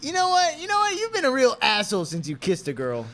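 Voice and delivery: very high, loud, hammed-up outburst; heated accusation. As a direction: launch into the accusation at full pitch. Retake of quarrel line, more heated.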